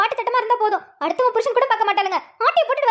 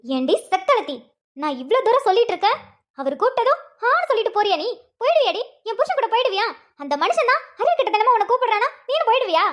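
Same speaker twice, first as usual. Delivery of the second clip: mock fight. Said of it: "பாரு அம்மா எப்படி சண்டை போடுறேன்னு பாரு".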